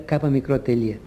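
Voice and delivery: "κάπα μικρό τελεία" spelled out as letters; spelled-out abbreviation, shown as wrong; wrong letter reading. Shown as a demonstration. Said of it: "Λάθος είναι να προφέρουμε".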